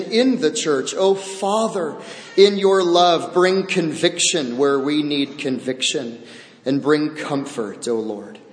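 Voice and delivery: earnest pastor's prayer, hushed at the close. Acted. Pastor praying before the sermon, earnest prayer voice. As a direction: pray it over the congregation.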